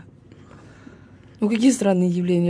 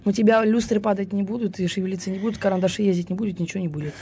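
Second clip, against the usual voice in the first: fortune teller; 2 semitones higher than usual. Acted. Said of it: "я гадалка".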